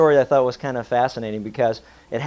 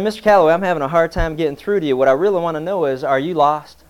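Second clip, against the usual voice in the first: exasperated preacher; 2 semitones higher, 5 dB louder than usual. Acted.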